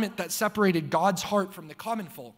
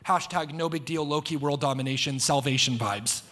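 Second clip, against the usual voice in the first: deadpan slang; 5 semitones lower than usual. Acted. Preacher jokes in slang.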